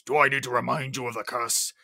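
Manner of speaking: low-pitched rebuke; lightly voiced irritated Beast; retold as a stern reminder. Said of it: "And the Beast says".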